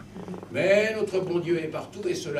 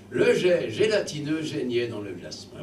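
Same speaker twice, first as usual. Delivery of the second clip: mock solemn recitation. Shown as a demonstration. Reciting the "most beautiful line" to the children, mock solemn. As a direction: declaim "Le jet gélatineux geignait dans le jasmin" grandly. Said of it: "le plus beau vers de la langue française".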